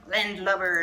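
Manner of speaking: a bit of hammed-up pirate speak; pirate talk. Shown as a demonstration. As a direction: punch it out loud like a pirate. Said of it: "say real pirate stuff like".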